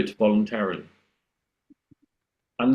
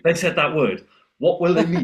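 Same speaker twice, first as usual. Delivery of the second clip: puzzled listener; 7 semitones higher, 3 dB louder than usual. Retold or imitated.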